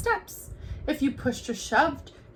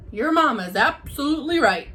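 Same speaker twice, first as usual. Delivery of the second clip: interrupting; 3 semitones higher, 6 dB louder, faster than usual. Acted. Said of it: "interrupted Papa".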